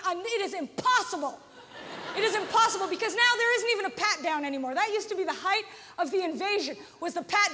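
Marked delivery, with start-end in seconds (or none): 0.0-1.4 exasperated self-quote. Retold or imitated. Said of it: "That's me going".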